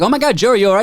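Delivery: mock shocked concern. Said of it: "I was like".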